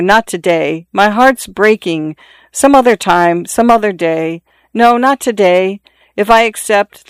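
urgent, tearful plea; distraught pleading. Acted. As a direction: beg him to stop, heartbroken. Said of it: "she interrupted him brusquely".

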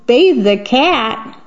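slow, doubtful cat voice; the cat can't believe it; a hint of a startled cat. Cat hearing it will be bathed, slow dismayed question. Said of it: "And the cat says".

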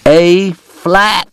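furious shout. Acted. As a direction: bark the correction across the saloon. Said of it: "Doc shouted".

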